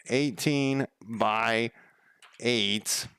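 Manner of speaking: Eighteen by eight drawn out slowly, word by word; slowly spelling out Eighteen by eight; slow calculating. Shown as a demonstration. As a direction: stretch "Eighteen" slowly while thinking. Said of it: "repeating the sum, slowed".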